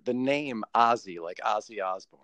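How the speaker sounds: "Ozzy" with an open American ah; "Ozzy" as in Ozzy Osbourne, American style; American pronunciation of Ozzy. Shown as a demonstration. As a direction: say "Ozzy" as an American says the name. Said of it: "as if it's an American saying".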